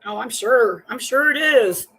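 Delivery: loud, dripping sarcasm; disbelieving scoff; sarcastic. Real, not acted. Sarcastic reply to clip.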